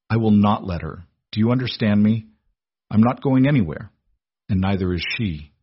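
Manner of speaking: firm vow. Acted. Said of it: "hard, unyielding vow".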